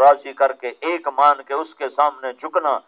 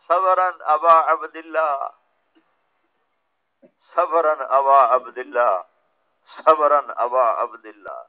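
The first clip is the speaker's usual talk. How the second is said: slow called-out plea; 2 semitones lower, slower than usual. Retold or imitated. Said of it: "زور سے نعرہ لگایا".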